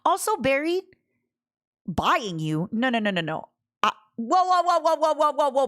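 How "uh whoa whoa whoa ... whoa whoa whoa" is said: high rising whoas, a bit louder; startled whoa. Real, not acted. Reacting to chat, high startled whoa. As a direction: caught off guard, protest with whoas.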